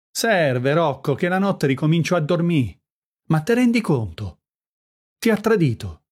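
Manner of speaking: worked-up, indignant outburst in dialogue; heated indignation. Acted. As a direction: press the accusation with rising pitch. Heated quarrel over friend's betrayal.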